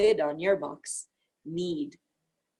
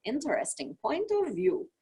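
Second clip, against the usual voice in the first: higher, airy amused tone; light musing; 6 semitones higher than usual. Retold or imitated. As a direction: toss it off lightly. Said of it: "you think".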